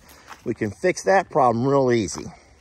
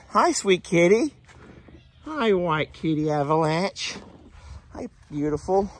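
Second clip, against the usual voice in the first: pet talk; 6 semitones higher than usual. Real, not acted. Greets a cat.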